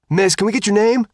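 high, loud call over a crowd. A narrator's reading. Reporter to Sophia, calling out over the crowd. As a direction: shout the question from the pack.

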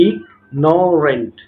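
"ignorant" split slowly, a gap after the first syllable. Shown as a demonstration. Teacher proving it has several syllables, syllable by syllable. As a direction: sound out "ignorant" in stretched, separate parts. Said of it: "একের অধিক উচ্চারণ".

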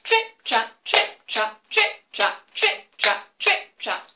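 loud high hoof steps; middle-sized trip traps. Shown as a demonstration. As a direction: medium goat steps. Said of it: "Middle-sized who's, remember".

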